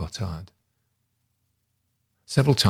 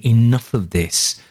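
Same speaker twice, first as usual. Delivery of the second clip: raised, slow insistent outcry; exclaiming; 3 semitones higher than usual. Pretend. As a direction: bang the table and exclaim it. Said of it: "banging the table and exclaiming".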